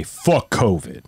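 slow, flat imitation of the parents; parents' blunt quote. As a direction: drag the words out like an annoyed old parent. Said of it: "they say".

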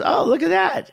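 high, mock-impressed "oh, look at that"; stylist's reaction. Hairdresser eyeing his home-cut hair, high mock-impressed remark. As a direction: play the hairdresser pretending to admire it. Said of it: "she goes".

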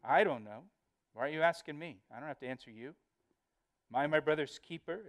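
insolent acted back-talk; mildly mocking, defiant retorts. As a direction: brush off the question with cheek. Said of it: "he's defiant in the face of God".

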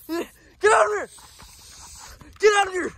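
loud, urgent shout; shouting it away. Real, not acted. Gamer shouting at the monster to get away, loud. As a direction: yell to chase the monster off.

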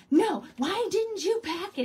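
loud, high panicked outburst; freaking out. Retold or imitated. Daughter panicking over her lost phone, a mock frantic yell. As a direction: imitate a frantic teen blaming her parents. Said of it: "And she starts freaking out".

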